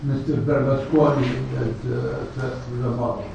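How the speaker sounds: soft, low, quick aside; hushed and low, tossed off quickly; offhand gossip. Acted. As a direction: drop the voice for idle gossip. Voicing people's casual scandal talk.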